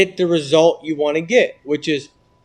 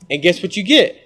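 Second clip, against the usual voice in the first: ordinary delivery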